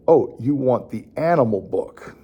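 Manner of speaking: warm, praising expansion; gently expand the phrase; encouraging parent. Shown as a demonstration. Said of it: "you could say".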